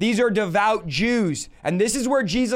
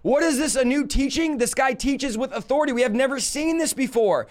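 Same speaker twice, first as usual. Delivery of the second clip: higher-pitched voice of an amazed crowd; retold wonder, pitched up; imitated astonished crowd; 4 semitones higher than usual. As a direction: exclaim like onlookers who are astonished. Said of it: "And the crowd goes".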